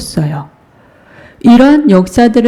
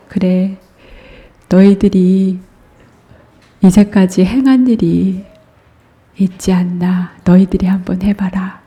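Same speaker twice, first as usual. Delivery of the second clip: gentle Jesus. Acted. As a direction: coax them gently to try. Jesus gently challenges disciples. (제자들에게 기회를 주는 예수님, 부드럽고 다정하게)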